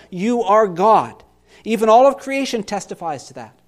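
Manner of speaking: steady yourself and declare God's rule; resolved declaration. Acted. Pastor declaring trust in God to the congregation, firm and resolved. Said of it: "a dramatic reading of this psalm".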